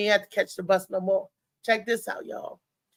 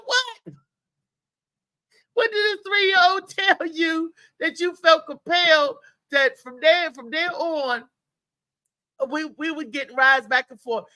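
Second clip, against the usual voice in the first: incredulous; 6 semitones higher than usual. Retold or imitated. Own disbelief at daily rides.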